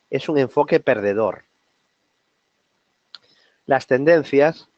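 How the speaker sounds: long pauses between the phrases; solemnly spaced-out reading of a maxim; measured quote reading. Real, not acted. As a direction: read it out deliberately, phrase by phrase. Reads quote aloud, then repeats it.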